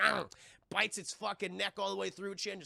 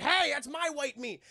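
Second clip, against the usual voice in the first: slow, loud, raised mock challenge; indignant holler; 8 semitones higher, 6 dB louder than usual. Kong confronts the pterodactyl, in a slow indignant mock holler. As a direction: call out possessively, higher and louder.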